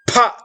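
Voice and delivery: pha with a puff of air after p, not an f; pha, a p with a breath of air; correct pha. Shown as a demonstration. Teacher gives the right pha, p with a breath. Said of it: "You should pronounce as".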